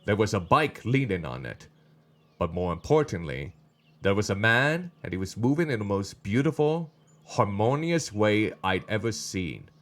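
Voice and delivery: measured, understated storytelling read; story narration. A narrator's reading. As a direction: read the scene aloud evenly. Reads the story aloud.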